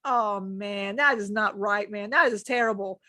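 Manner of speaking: low, groaned-out complaint; low-voiced protest, imitating herself; retold dismay. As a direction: drop the pitch in mock dismay. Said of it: "I'm like".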